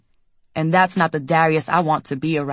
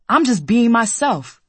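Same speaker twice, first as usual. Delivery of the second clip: louder, slow, voice cracking; 5 semitones higher than usual. Acted. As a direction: push it louder till it cracks. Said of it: "He's louder now, and his voice cracks".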